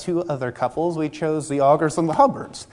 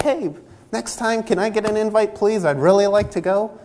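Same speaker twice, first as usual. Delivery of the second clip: polite request; 4 semitones higher than usual. Shown as a demonstration. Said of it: "Just go be like".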